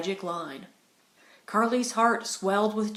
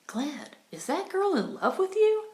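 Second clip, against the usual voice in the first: higher, blunt and direct; blunt question; 10 semitones higher than usual. A narrator's reading. Carly asking Glenn about Flo, bluntly. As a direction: put it to him straight. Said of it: "asked Carly bluntly".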